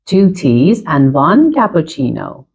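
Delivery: very slow, spelled-out model sentence; slow teacher model. Shown as a demonstration. Teacher modelling a sentence for students, slow and clear. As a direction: read it slowly for learners to copy. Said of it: "teacher repeats model sentence".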